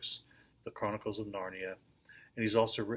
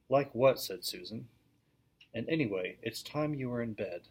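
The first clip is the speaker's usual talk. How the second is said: steady read-aloud storytelling voice; lively classroom story reading; story narration; 4 dB louder than usual. A narrator's reading. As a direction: read the tale to a class of children. Reads the book aloud to class.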